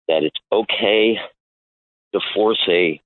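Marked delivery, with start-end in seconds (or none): 2.1-3.0 breathless from the stairs; winded, short of breath. Real, not acted. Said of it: "I'm out of breath a second".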